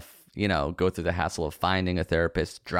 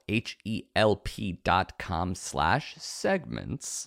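spelled out slowly; much slower than usual. Shown as a demonstration. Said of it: "spelling out URL".

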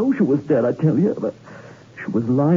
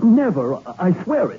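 high, pleading protest; desperate denial; 5 semitones higher than usual. Acted. Suspect insisting to the lieutenant, desperate and pleading. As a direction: plead your innocence.

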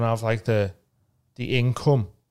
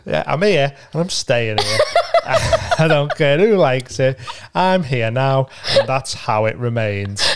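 laughing mock defiance; 6 dB louder, slower than usual.

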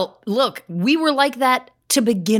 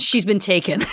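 posh laughing repeat; 2 semitones lower than usual. Retold or imitated. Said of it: "never sounded so posh".

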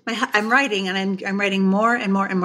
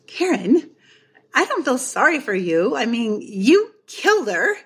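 imitated eye-rolling protest, higher pitch; exasperated husband; 5 semitones higher than usual. Husband scolds his author wife, mock exasperated. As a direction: unsympathetic spouse, last words stretched. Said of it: "my husband rolls his eyes all the way".

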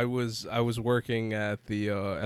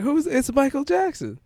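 put-on high, slow little kid voice. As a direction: play the confused little boy, high and slow. Kid's voice quoted at costume.

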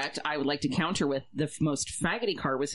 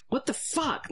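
retold disbelief; 10 semitones higher, slower than usual. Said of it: "and I'm like".

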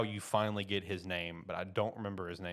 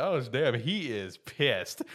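laughing mock alarm; 5 semitones higher, 5 dB louder, much slower than usual. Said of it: "one of the guys is just like".

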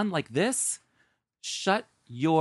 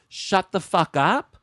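mock angry quote; 6 dB louder than usual. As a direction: spit it out like she did, slowed and loud. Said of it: "She says".

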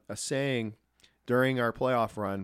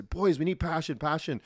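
higher, louder mock Finnish accent, building; Teemu's accent again; 7 semitones higher, 6 dB louder than usual. Mimicking the captain's Finnish-accented pep talk to the team. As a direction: imitate Teemu's Finnish accent urging the boys. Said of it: "he had a funny accent".

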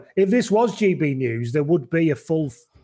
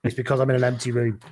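echoey room; 3 semitones lower than usual. Real, not acted. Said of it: "if I sound a little bit echoey".

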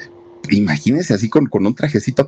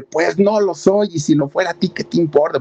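defiant retort; 8 semitones higher than usual. Retold or imitated. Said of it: "empieza a decirle". (respuesta desafiante, lenta y aguda)

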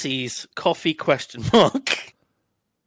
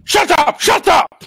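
high shrill mocking shout; squeaky falsetto mockery; 12 semitones higher, 6 dB louder than usual. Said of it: "Okay, I'll play Simon".

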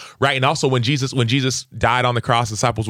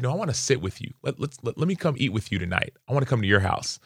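softer, hushed offer to share a meal; gentle invitation; 6 dB quieter than usual. Retold or imitated. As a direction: quietly invite him in, no reproach. Jesus voiced inviting Zacchaeus.

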